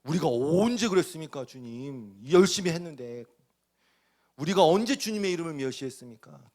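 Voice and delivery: mildly voiced offended priests; indignant priests. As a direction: protest your innocence, a bit loud. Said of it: "그랬더니 뭐".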